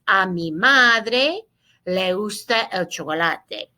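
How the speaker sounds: "A mi madre" drawn out slowly; model Spanish reading. Shown as a demonstration. Teacher reads slowly for students to repeat. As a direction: say it slowly for the class to echo. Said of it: "Lean conmigo, estudiantes".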